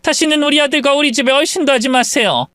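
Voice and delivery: haughty mother-in-law line; cold in-law. Acted. In-law orders the mother away, haughty. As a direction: shut the door on her for good.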